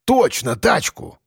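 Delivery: quick pleased exclamation on тачку; eager agreement. Acted. Piston jumps on the idea of a garden barrow, pleased exclamation. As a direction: seize the idea with a grin. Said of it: "утёр нос Пистон".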